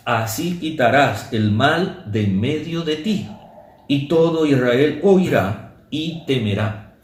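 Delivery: slow, solemn reading of the law; measured Bible reading from the pulpit; scripture reading. Acted. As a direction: read the verses slowly, weighing each clause. Reads Deuteronomy law aloud.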